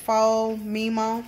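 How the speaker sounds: Fomemo sounded out slowly as foh-MEE-moh; careful pronunciation. Shown as a demonstration. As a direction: say Fomemo slowly, trying out the name. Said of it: "I think that's how you pronounce it".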